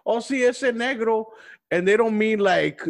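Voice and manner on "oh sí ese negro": Spanish speaker. Retold or imitated. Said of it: "people speaking in Spanish".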